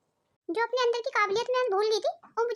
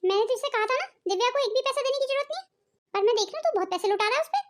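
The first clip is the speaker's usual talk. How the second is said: scolding mother. Acted. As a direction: grill the son like a suspicious mother. Mother scolds son about money.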